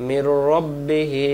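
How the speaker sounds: মির রব্বিহি with a doubled heavy r and short o; correct rabbihi. Shown as a demonstration. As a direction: say রব্বিহি not রাব্বিহি. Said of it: "তখন উচ্চারণ কিন্তু ভুল হয়ে যাবে". (সঠিক উচ্চারণে রব্বিহি)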